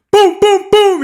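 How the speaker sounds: loud, high mock gunfire booms; shouted boom boom like gunfire; imitating gunshots. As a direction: bang out the booms like shots.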